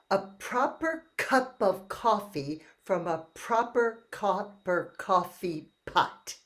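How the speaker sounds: proper cup of coffee with every k popped hard; hard k sounds. Shown as a demonstration. Speech therapist modeling crisp hard k sounds for the group. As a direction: spit out each k in coffee and copper. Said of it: "let's make sure we do that k sound really hard".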